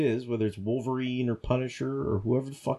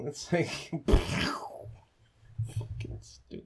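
laughing disbelief; 5 semitones higher, 5 dB quieter, much slower than usual. Real, not acted. Laughing disgust after mock voice.

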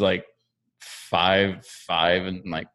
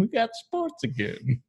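excited cheer; 12 semitones higher than usual. Pretend. Mock cheer on sports' return.

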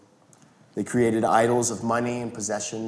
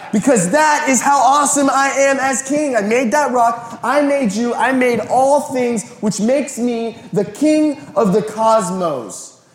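high, loud proclamation, slowing at the end; high, loud preacher declaring Jesus king; full-force preaching; 12 semitones higher, 8 dB louder than usual. Acted. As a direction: proclaim the kingship triumphantly.

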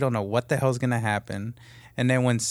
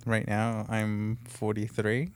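put-on old man voice; 3 semitones lower, 8 dB quieter, slower than usual. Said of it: "That was my old man voice".

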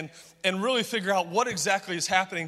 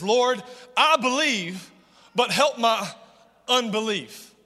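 earnest plea, mildly raised; crying-out plea. Acted. A desperate father crying out to Jesus for help, pleading. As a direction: cry out to the Lord without real sobbing. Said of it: "He cries out with tears and he says".

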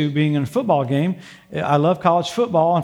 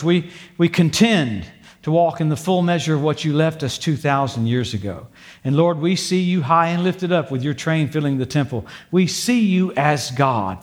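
prayer; 2 semitones lower than usual. Acted. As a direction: pray over the congregation, unhurried. Pastor leads a prayer.

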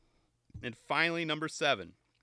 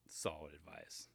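whisper; 9 semitones lower, 15 dB quieter than usual. Acted.

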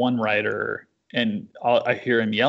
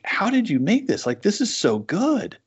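higher, thrilled praise; Mark, excited; 9 semitones higher than usual. Retold or imitated. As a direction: gush like an impressed editor. Quoting Mark's praise.

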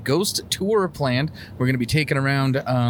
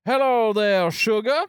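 breathy vintage purr; 9 semitones higher, slower than usual. Pretend. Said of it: "I gotta talk like the time".

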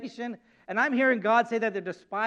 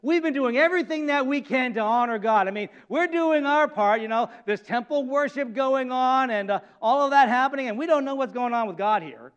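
complaining Israelites. Acted. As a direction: plead your own case, aggrieved. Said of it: "framed this kinda like this".

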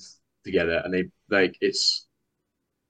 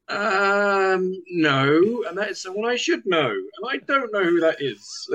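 high, drawn-out hesitation; squirming, high-pitched confession of not knowing; awkward admission; 10 semitones higher, much slower than usual. Acted. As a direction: stretch it out high and sheepish, dragging the last words. Awkward admission in acted exchange.

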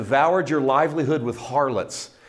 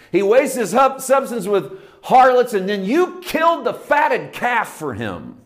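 resentful accusation; 8 semitones higher, 5 dB louder, slower than usual. Retold or imitated. Older brother accusing the father.

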